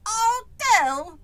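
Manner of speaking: high, loud, baffled shout; yelling. A narrator's reading. Boy puzzled by a strange word, yelling. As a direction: yell the unknown word as a question. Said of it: "why are you yelling".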